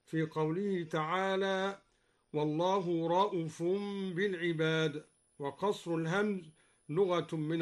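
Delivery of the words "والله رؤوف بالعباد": رؤوف said ra'uf, the hamza vowel kept short. Shown as a demonstration. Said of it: "وقصر الهمزة".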